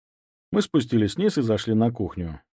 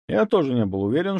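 usual speaking voice

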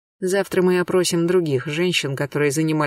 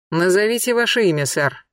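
barked order; 3 semitones higher than usual. Acted. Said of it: "рявкнул Бенуа".

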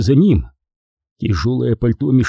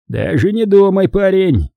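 warning; 8 semitones higher, 3 dB louder than usual. Acted. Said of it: "предостерёг констебль".

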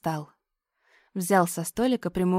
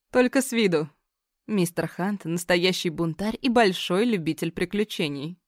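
light teasing tone; playful. Acted. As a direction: tease him playfully. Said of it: "в той же игривой манере".

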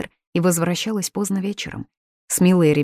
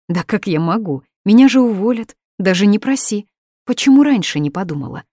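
flustered refusal; 5 semitones higher, 6 dB louder than usual. Acted. Administrator refusing a ticket.

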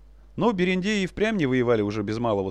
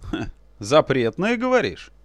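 mocking chuckle; 3 dB louder, slower than usual. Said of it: "Князюшка усмехнулся".

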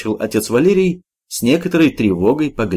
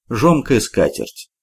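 usual speaking voice

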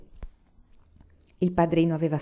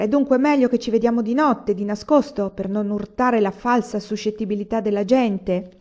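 indignant, raised and higher; heated protest; angry; 4 semitones higher, 4 dB louder than usual. Acted. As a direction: spit it out in irritation.

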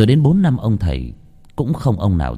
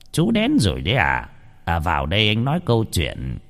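lightly voiced knowing old master, softer; calmly expecting the visitor; old master greets; 3 dB quieter than usual. Old master greets the grandfather, calm and knowing. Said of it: "cất giọng".

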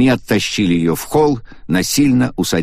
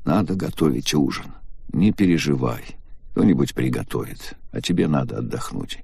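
lower, softer, one flat tone; monotone, hoarse; 5 semitones lower, 5 dB quieter than usual. A narrator's reading. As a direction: say it numb and hoarse. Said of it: "монотонным и хриплым голосом". (Агата монотонно и хрипло говорит об ужине)

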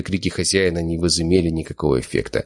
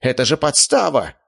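yelled accusation; 8 semitones higher than usual. Acted. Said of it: "заорал хозяин разрушителя".

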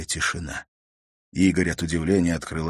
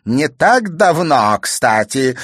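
higher, louder, slow jeering crone; mocking; 6 semitones higher, 8 dB louder, slower than usual. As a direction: taunt the girl cruelly. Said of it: "с издевкой заявила старуха".

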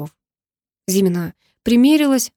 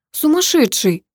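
mild shout; 7 semitones higher, slower than usual. A narrator's reading. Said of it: "крикнула она".

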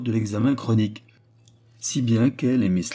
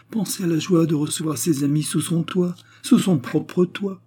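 much higher, slowing into rapture on toit; ecstatic; 8 semitones higher than usual. A narrator's reading. Anna imagining her own home, ecstatic. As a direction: dream aloud with delight. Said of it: "revenant à l'extase".

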